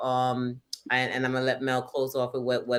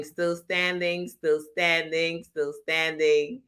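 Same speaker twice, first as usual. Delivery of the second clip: reading the chat; 4 semitones higher, slower than usual. Retold or imitated. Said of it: "people are writing".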